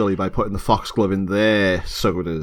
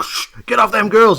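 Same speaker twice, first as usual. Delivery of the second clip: much higher, louder yokel threat; hillbilly; 13 semitones higher, 6 dB louder than usual. Retold or imitated. Trucker defending the girls, hillbilly voice. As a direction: warn him off like a hillbilly with a shotgun. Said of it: "a couple of hillbillies there with a shotgun".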